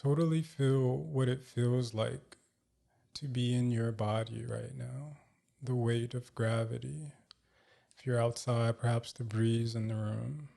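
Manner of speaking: calm, measured meditation guide with long pauses; guided meditation. Real, not acted. Host guiding listeners to feel grounded, calm meditation voice.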